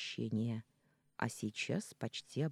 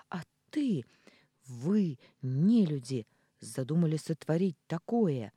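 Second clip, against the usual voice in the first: angry outburst; 4 dB louder than usual. Acted. Heroine accuses captor, outburst.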